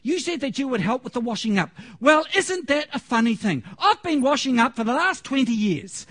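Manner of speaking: mock-angry wife tearing into her husband. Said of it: "And she said it angrily".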